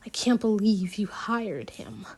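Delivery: soft whisper, beaten; whispered complaint. Acted. Alex telling Miss Teague he can't believe it, soft whisper. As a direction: breathe it out, no fight left. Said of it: "I tell Miss Teague".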